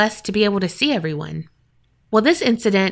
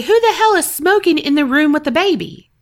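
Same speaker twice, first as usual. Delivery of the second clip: high, loud indignant demand; angry outburst; 7 semitones higher, 4 dB louder than usual. Retold or imitated. Mother yelling at strangers smoking near her baby, angrily. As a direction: snap at the strangers over the baby's safety. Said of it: "I'm getting all mad".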